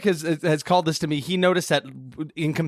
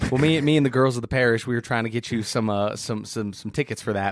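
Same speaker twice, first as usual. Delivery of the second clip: judgy church lady; 5 semitones lower than usual. Acted. Parish lady explaining the failed ticket plan, low voice. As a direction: play a hesitant church lady. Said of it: "judgy church ladies".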